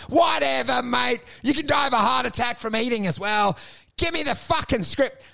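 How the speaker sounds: dismissive argument replay; retold blow-up. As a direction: retell your side of a blow-up, mildly heated. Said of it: "had a big fucking blow up".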